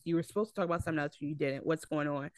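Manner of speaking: quick, hushed and accusing; critical inflection. Retold or imitated. Wife rebukes her husband for changing the sermon, in a quick hushed accusing tone. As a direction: rattle off a quiet reproach to her husband. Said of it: "The inflection was".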